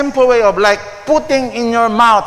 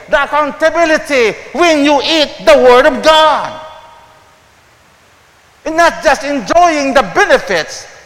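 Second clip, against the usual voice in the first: higher, louder sermon build; preaching; 6 semitones higher, 4 dB louder than usual. Acted. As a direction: press the point home to the congregation.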